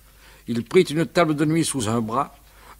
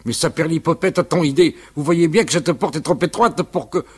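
mild angry outburst, a bit louder; 4 semitones higher, 4 dB louder than usual. Acted. Uncle Jules scolding the drunk mover, mildly angry. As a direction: fume at the mover. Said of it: "se fâcha tout rouge".

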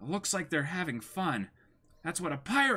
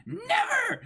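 much higher, sharp cry of refusal; defiant refusal. Acted. Captive refusing to join the pirate crew, defiant cry. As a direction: fling it back in defiance.

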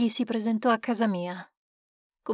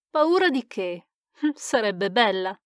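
scoffing laugh. Acted. Scientist scoffs at accusation.

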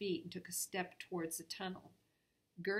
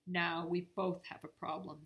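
firm stern warning; a touch of stern authority; sternly; 4 dB louder than usual. Acted. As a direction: lay down the problem coldly. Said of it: "said Nora sternly".

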